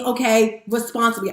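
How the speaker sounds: normal talking voice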